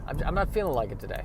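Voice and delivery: quick, fed-up butler voice; tired Alfred. Pretend. Butler answers Batman, lightly voiced and tired. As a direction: brush off the question. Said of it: "Alfred is gonna speak with, uh, this voice".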